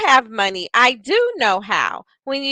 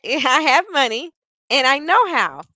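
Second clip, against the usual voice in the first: lifted; 3 semitones higher than usual. Shown as a demonstration. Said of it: "do you notice there's a difference".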